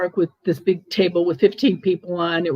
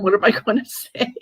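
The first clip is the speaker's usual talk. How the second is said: laughing; 4 semitones higher, faster than usual. Retold or imitated. Repeats the panicked thought.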